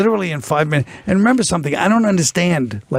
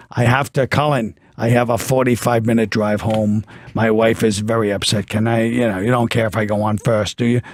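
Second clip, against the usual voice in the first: low, matter-of-fact imitation; mock request with no real question in it; telling, not asking; 5 semitones lower than usual. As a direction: lower the pitch and state it as settled. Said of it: "they weren't asking, they were just saying".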